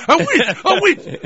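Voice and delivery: put-on very high, slow baby-talk cry; childhood self. Child asking mother about a witch, squealed mock baby talk. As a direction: imitate yourself as a babbling toddler, laughing. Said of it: "I can't do an impersonation of myself".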